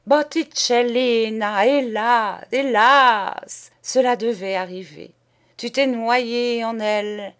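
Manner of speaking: loud, high mournful hélas; lament. Acted. Painter lamenting to his friend, loud and high. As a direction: wail the loss.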